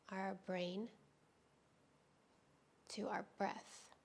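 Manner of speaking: calm, unhurried yoga teacher with long pauses; guided yoga meditation. Real, not acted. Teacher easing students into restorative yoga, calm guided-meditation delivery. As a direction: guide them gently through breath and stretch, leaving space between phrases.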